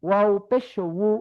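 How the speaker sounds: উ as a slow wu from the lips; lip-made wu. Shown as a demonstration. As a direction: draw উ out through the lips, like wu. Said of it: "ঠোঁট থেকে হবে".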